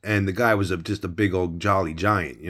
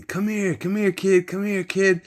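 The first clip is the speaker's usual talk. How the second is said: big man taunting in a much higher put-on voice; menacing giant; 10 semitones higher than usual. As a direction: reach through the bars and lure the kid in. Giant cellmate reaching for scared kid.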